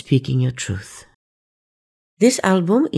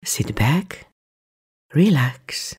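guided meditation; 4 dB quieter than usual. Acted.

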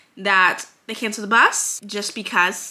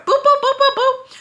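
squeaky high boops for fast forward; high boop sound effect; 5 dB louder than usual. Pretend. Vlogger skipping ahead in her story, squeaky boops. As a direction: chirp each boop up high.

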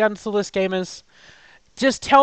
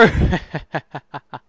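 villain laugh; 4 semitones lower than usual. Acted. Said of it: "Villain laugh".

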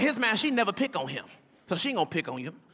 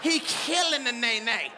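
slow emphatic hype; 4 semitones higher, slower than usual. Retold or imitated. Describing son dancing.

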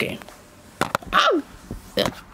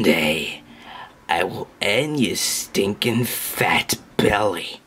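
menacing whisper; 7 semitones lower, 5 dB quieter, slower than usual. Acted. Brother threatens, unvoiced whisper.

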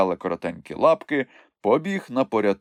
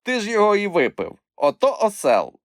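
higher, quick, cross accusation; angry retort; 12 semitones higher, 4 dB louder than usual. A narrator's reading. Moomintroll blames Chmykh for the juice, angry. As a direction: scold him with rising temper. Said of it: "розсердився Мумітроль".

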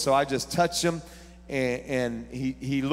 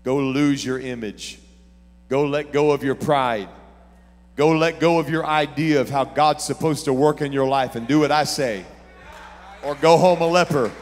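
prophet's command, building; 6 dB louder than usual. Retold or imitated. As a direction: let the prophet's orders climb to a shout. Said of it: "And the prophet said".

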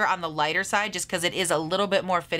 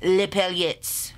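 Les paillettes stretched to half speed with a falling end; slow careful repeat; much slower than usual. Shown as a demonstration. Vlogger practises after the recorded voice, slow and deliberate. Copies slowed-down pronunciation clip.

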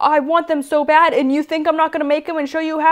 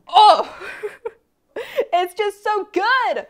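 laughing gush; 9 semitones higher, slower than usual. Real, not acted. Gushing about the parade.

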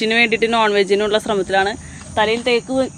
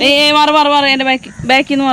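raised, higher urgent call; urgent warning; 4 semitones higher, 3 dB louder than usual. Real, not acted. Parent telling a child to move back, urgent warning. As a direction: call out sharply to clear the way.

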